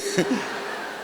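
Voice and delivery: breathy chuckle after a joke; soft laugh. Real, not acted. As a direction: quietly laugh at your own punchline. Laughs at own punchline.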